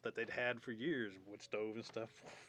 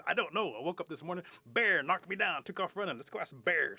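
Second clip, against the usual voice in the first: high, loud story-wolf reply; frantic wolf; 7 semitones higher, 12 dB louder than usual. Acted. Wolf answering Rabbit while running, frantic shouting. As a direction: shout the excuse on the run. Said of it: "Wolf says".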